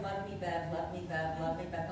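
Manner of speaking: low pleading dog voice. Retold or imitated. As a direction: beg in a deep doggy voice. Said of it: "He's like".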